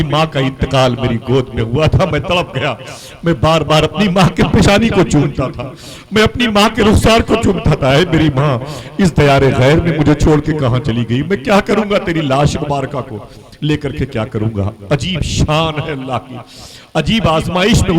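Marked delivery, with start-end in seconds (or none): 3.2-14.7 grieving lament. Acted. Son's grief over dead mother. (ऊँची, बुलंद आवाज़ में दर्द भरा मातम)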